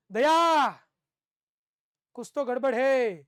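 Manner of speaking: loud call, then a slow, grave line; imitating the TV detective; CID officer. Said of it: "C I D માં". (CID ના અધિકારીની નકલ, ધીમું અને ગંભીર)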